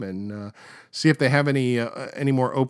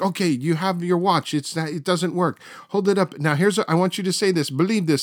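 Uri Geller on TV; 6 semitones higher than usual. Retold or imitated. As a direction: boss the viewers around like a TV psychic. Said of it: "he's like".

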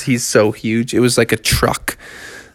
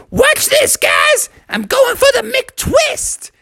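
high-pitched shout to the gang; excited show-off; slower than usual. Acted. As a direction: hype up your big stunt in a squealing voice. Frog announces his big stunt.

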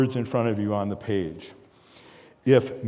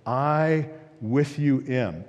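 slow, deliberate phrasing; very personal; much slower than usual. Retold or imitated. Preacher voicing Christ's words to the disciples, slow and personal. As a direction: give each word room, person to person. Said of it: "He gets very personal".

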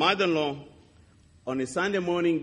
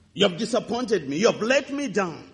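louder, accusing; reproachful; 5 semitones higher, 4 dB louder than usual. Retold or imitated. Grieving man rebuking God, loud and hurt. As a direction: throw the blame at God. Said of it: "I said".

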